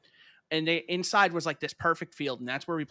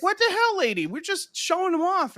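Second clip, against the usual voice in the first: put-on high, whiny-loud kid comeback; retold indignant protest; 5 dB louder than usual. Kid protesting to neighbor lady, retold indignation. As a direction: protest loudly, pitched way up.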